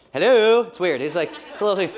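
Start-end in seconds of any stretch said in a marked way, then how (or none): 0.1-0.6 loud, lilting, drawn-out hello; sing-songy hello. Retold or imitated. Dad answering the phone, sing-songy. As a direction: sing out the greeting. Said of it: "sing-songy thing he does".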